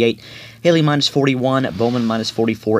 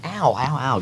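real ow of leg pain; 3 semitones higher, slower than usual. Real, not acted. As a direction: wince through the ows. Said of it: "That actually hurts".

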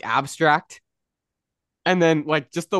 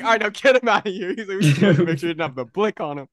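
bossy security boss; 4 semitones higher, faster than usual. Retold or imitated. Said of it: "then he's like".

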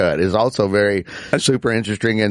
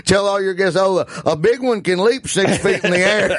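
exasperated brother; 6 semitones higher than usual. Retold or imitated. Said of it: "And my brother goes".

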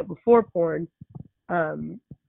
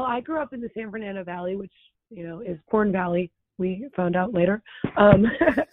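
hoarse, strained voice; raspy voice; 2 semitones higher than usual. Real, not acted. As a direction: talk through a raspy throat. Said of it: "excuse my voice, I can't really talk".

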